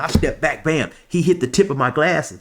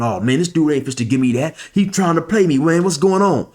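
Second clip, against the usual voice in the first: mock huffing and puffing; 5 semitones higher than usual. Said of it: "He's huffing and puffing".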